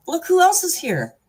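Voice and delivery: high sing-song voice to a pet. Real, not acted. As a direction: coo at the dog. Talking to her dog.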